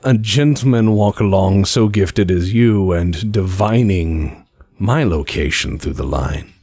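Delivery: polite, measured request; calm courtesy over the phone; lightly voiced spymaster. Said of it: "He goes".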